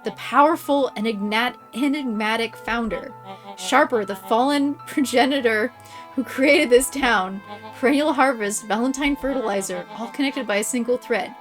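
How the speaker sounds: theatrical villain voice; villain monologue. Acted. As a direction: gloat like a storybook villain.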